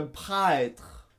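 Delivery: prêtre dit « praètre », lentement; étirer prêtre de A vers È; È diphtongué. Shown as a demonstration. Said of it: "E se prononce A-E". (« prêtre » à la québécoise)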